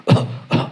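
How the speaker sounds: short staged cough; imitated cough. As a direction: mimic the father coughing. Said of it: "ele começou a tossir".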